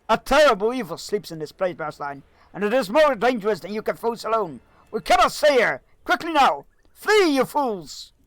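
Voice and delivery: loud, high urgent wizard warning; Gandalf impression. Wizard urges Bearstan to flee, loud and urgent. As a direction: warn the hero like a desperate wizard.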